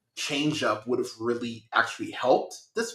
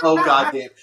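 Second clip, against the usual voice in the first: higher, louder groan of dismay; exasperated groan; 10 semitones higher, 6 dB louder than usual. Retold or imitated. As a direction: loudly groan like you've seen this movie before. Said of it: "I was just like".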